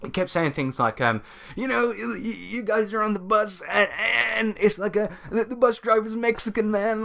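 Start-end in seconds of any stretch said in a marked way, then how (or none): 1.6-7.0 much higher, put-on dumb bro voice; mocking the racist GM. Mocking the racist game master to the co-host, high put-on bro voice. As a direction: ham up a clueless dude GM. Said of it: "that's how he spoke".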